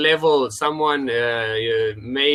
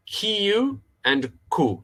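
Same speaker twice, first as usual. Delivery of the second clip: slow model; 7 semitones higher, slower than usual. Shown as a demonstration. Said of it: "So let's practice".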